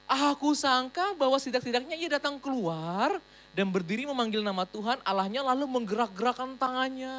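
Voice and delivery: loud, indignant read of Naaman's complaint; angry general's grievance, loud; furious reading. Acted.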